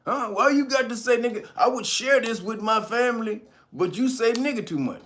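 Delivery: high, whiny mock complaint; imitating a shrill complainer; mocking complaining viewer. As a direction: squeal it like a fussy new viewer. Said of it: "don't come in here and be like".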